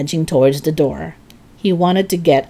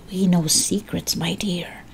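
put-on old woman whispering; 6 dB quieter than usual. Witch whisper.

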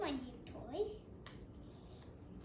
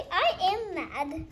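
mock mad; 5 dB louder, slower than usual. Voicing angry character.

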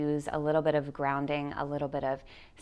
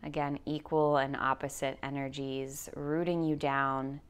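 calm, measured guide voice with long pauses; guided meditation; slower than usual. Acted. Yoga teacher guiding listeners through anxiety, in guided meditation voice. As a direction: lead them slowly into grounding, leaving space for breath.

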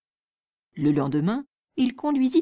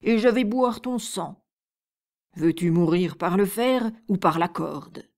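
raging giant; 3 dB louder than usual. Acted. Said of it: "dit le monstre avec rage".

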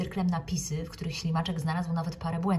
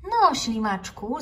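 slow, louder, higher cheerful call; 6 semitones higher, 8 dB louder, much slower than usual. Acted. Teacher Okapi calling the hesitant snail, merry and drawn out. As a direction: call the snail over merrily. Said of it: "zawołała wesoło pani Okapi".

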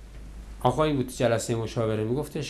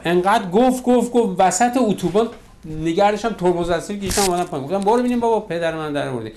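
exasperated outburst; 4 semitones higher, 4 dB louder, faster than usual. Retold or imitated. Wife loses temper.

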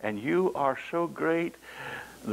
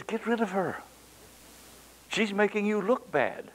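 complaining disciples; 8 semitones higher than usual. Retold or imitated.

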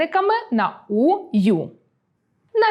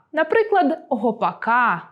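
«гопака» with stress on the final «ка»; «гопака»: hit the final syllable hard; stress on the ending. Shown as a demonstration. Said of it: "наголос у родовому відмінку падає на закінчення". («гопака» з наголосом на закінченні)

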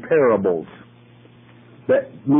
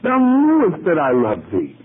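Lord, thou knowest high and slow, pleading; grieved Peter answering Jesus, high pleading; Peter's earnest plea; 7 semitones higher than usual. A narrator's reading. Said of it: "And he said unto him".

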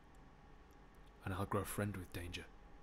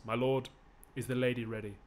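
louder call from offstage; 4 dB louder than usual. Acted. Messenger calling in from offstage, raised call. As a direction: call out to be heard beyond the door. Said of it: "he's off stage and he yells".

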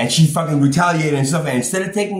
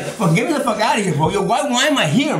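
higher-pitched mock protest; retold pissed off; 6 semitones higher than usual. Patient protesting being held in psych ward, mock agitated. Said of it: "you're like, fucking pissed off".

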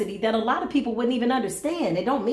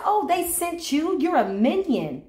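mocking scold; 4 semitones higher than usual. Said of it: "I said".

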